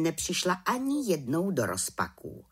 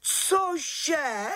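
shocked; 14 semitones higher than usual. A narrator's reading. Shocked reaction.

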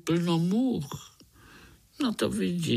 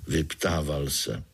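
usual speaking voice

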